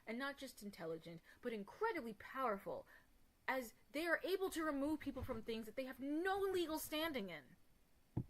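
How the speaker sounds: mock-posh, haughty and prim; pompous white woman voice. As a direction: put on a haughty posh lady voice. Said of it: "Did I sound like a fucking pompous white woman?".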